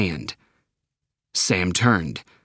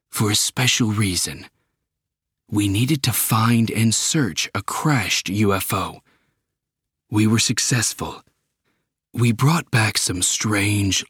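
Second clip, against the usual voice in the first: put-on old astronaut; 2 semitones lower than usual. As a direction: share the secret gently. Old astronaut reveals secret.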